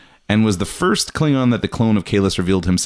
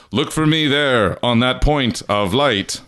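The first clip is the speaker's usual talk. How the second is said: put-on tag Klingon accent; 3 semitones higher, slower than usual. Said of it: "I've been using that accent this whole time".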